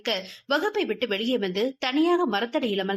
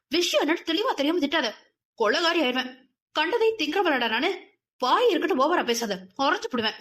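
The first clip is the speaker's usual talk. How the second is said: a fast, higher-pitched angry telling-off; angry scolding; 4 semitones higher than usual. Acted. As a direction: snap at him for scolding her without knowing. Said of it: "என கோபமாக பேசினாள் மலர்". (கோபமான, வேகமான திட்டு)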